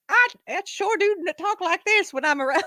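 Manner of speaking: high, mocking fake Southern Black accent; hammed-up Southern accent imitation. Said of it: "fake Southern Black accent".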